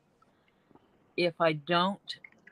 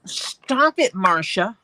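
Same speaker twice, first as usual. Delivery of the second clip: teasing; 2 semitones higher, 8 dB louder, slower than usual. Real, not acted. Teasing friend over nickname.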